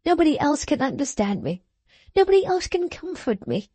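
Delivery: put-on a young woman begging her father's comfort; tearful pleading. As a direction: beg as if your heart will break. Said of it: "in an incoherent passion of tears".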